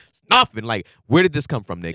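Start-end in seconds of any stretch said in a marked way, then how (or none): none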